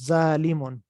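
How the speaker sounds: "ظالمون" with a thin, light z and open aa; thin the first sound of "ظالمون" to a plain z; thin, light consonant. Shown as a demonstration. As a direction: say "ظالمون" light, not heavy. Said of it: "اس کو پتلا باریک کریں گے".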